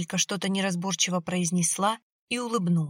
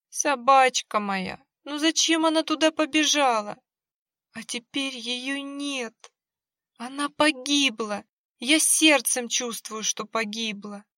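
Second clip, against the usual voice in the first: tearful lament; 6 semitones higher than usual. Acted. Woman weeping over dead dog.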